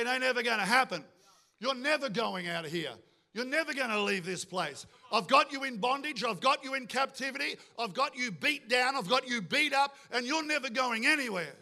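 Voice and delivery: in-your-face taunting threats; bullying Pharaoh, pressing the captive down; intimidating. Acted. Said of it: "He wants to get in your face".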